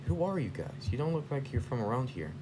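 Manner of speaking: high-pitched puzzled hero; puzzled questioning. Acted. Heroes questioning the strange robots, high puzzled voice. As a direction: lift the voice, querying a stranger.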